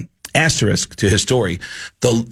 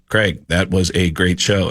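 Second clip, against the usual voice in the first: voice box speech; 5 semitones lower than usual. Retold or imitated. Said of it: "through his little voice box thing".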